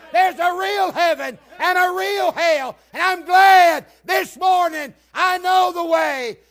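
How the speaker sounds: high, slow, roaring proclamation, easing at the end; full-force preaching. Real, not acted. Preacher glad he knows the way, full-force preaching. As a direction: shout every phrase to the back pew.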